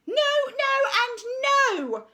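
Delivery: high, loud, flat refusals; teacher's shout. Acted. Art teacher rejecting the children's work, loud and high. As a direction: reject every attempt sharply. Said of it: "she would shout".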